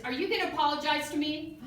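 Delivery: loud, confrontational retold demand; imitated screaming mom. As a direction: demand it as an affronted mother. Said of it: "So she's screaming at me".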